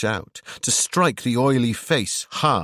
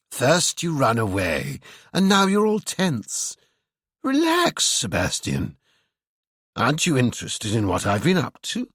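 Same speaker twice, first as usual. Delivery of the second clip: Ewan's mocking voice; 3 semitones higher than usual. A narrator's reading. Narrator voices Ewan.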